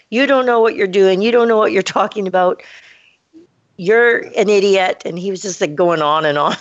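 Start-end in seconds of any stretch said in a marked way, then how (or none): 0.1-5.0 higher, louder retold outburst at her; imitating an angry rant. Freelancer rants at her after being fired, mock furious. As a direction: play the freelancer losing it, jabbing at don't. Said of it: "This guy lost it on me".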